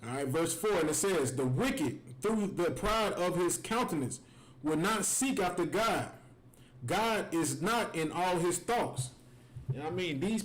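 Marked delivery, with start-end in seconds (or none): 1.3-9.1 slow scripture reading. Acted. Reads scripture slowly.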